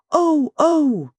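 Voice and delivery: high, loud panicked cries; the maid losing control in terror; hysterical. A narrator's reading. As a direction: break into hysterical oh-s. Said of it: "symptoms of renewed hysteria".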